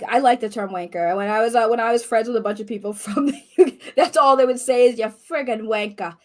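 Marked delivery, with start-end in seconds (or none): 5.0-6.1 put-on British insult in a mostly Boston accent; badly faked British accent; attempted British accent. Quoting UK friends to the co-host, attempted British accent. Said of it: "what kind of accent was that".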